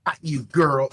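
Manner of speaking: high, loud burst; in-character call. Acted. Player acting out a spell cast, loud high call. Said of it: "I'm gonna go".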